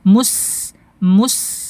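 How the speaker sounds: MUS with a thin, long S; thin sin. Shown as a demonstration. Teacher drilling lip position, thin sin in mus. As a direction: round the M, unround for the S in MUS. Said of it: "balik lagi bibirnya".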